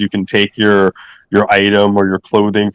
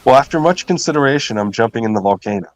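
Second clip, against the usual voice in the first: mock solemn; faster than usual. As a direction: fake deliberating, quick and dry. Mock solemn answer quoted.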